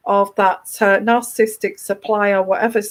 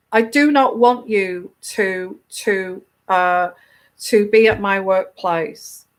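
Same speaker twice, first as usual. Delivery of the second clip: factual monotone; 2 semitones lower than usual. Shown as a demonstration. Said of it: "You have to do it in a factual way".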